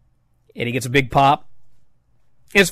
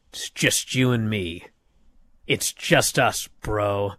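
hushed; 6 semitones lower, 7 dB quieter, slower than usual. Retold or imitated. Quiet vow between partners.

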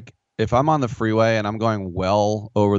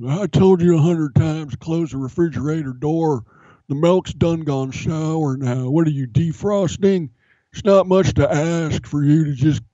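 the speaker as dad; 8 semitones higher than usual. Pretend. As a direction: nag the kid like a gruff coach-dad. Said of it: "if it's your dad".

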